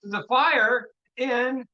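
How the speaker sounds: slow, high, drawn-out call; retold cry for help. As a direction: plead for rescue, stretched out. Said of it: "When he screamed out".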